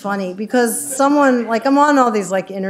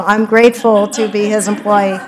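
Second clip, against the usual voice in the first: chuckling through the words; laughing; 5 dB louder than usual. Real, not acted. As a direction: say it while laughing at the joke. Joking about her boss.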